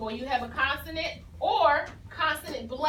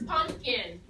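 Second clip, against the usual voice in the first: unhurried whole-word read; whole word, slowly; 3 semitones lower than usual. Shown as a demonstration. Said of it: "Here's the word pumpkin".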